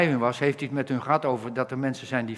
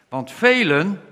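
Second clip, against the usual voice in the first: uitroep; 6 semitones higher, 8 dB louder, slower than usual. Acted. Emotional scripture climax.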